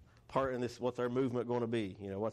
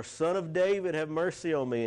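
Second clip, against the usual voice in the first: much higher, mildly raised pleading call; crying out insistently; 6 semitones higher, 4 dB louder than usual. Acted. Blind beggar to Jesus over those hushing him, crying aloud. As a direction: call out for mercy, pitched up. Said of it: "he cried aloud all the more".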